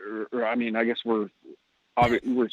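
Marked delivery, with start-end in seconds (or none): 2.0-2.5 muffled through a mask; talking behind a face mask. Real, not acted. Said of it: "as I'm talking through a mask".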